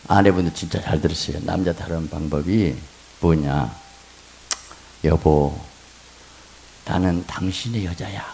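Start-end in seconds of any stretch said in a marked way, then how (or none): 5.0-8.2 low, soft loving words; tender wife's line. Shown as a demonstration. Pastor demonstrating a tender line for wives. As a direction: say it sweetly to him. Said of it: "한번 따라서".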